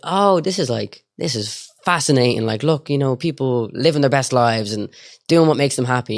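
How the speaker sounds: mildly acted fascination. Sibling testing brother's view of a TV documentary, mild fascination. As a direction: talk it up with light, retold enthusiasm. Feigned interest to sound out brother.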